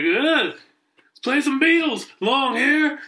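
high, drawn-out mock jeer; imitated heckling. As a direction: jeer at the band like a bar heckler. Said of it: "as he's heckling".

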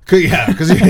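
laughing as he talks. Real, not acted. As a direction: break into laughter. Laughing at the liberal joke.

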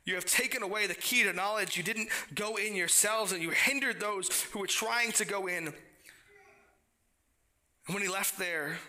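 earnest, lifted Bible reading; scripture reading. Acted. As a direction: read the woes with rising urgency. Reads scripture passage.

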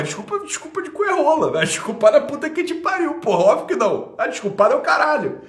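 high, loud scornful yelling; angry yell. Real, not acted. Mocking the apology he got in chat, angry yell. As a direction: throw the apology back in their face.

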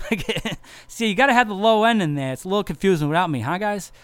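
high, loud, laughing mock boast; laughing tease. Real, not acted. Bassist teasing his bandmates, laughing and loud. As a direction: rib the band through a laugh. Teasing joke about bass player's absence.

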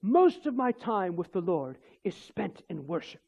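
slow imitation of a South African accent; lightly put-on South African accent. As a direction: quote her slowly in a South African accent. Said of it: "in her South African accent".

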